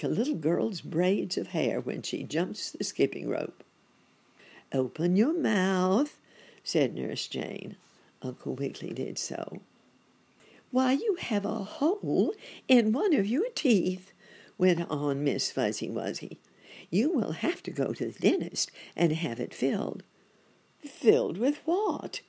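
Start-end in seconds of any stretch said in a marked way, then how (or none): 4.7-6.2 brisk nurse. A narrator's reading. Nurse gives an order. 10.7-20.0 higher, brisk nurse voice; a kind nurse giving the verdict; nurse explaining. A narrator's reading. 20.8-22.2 high, loud startled rabbit; alarmed question. A narrator's reading. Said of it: "asked Uncle Wiggily".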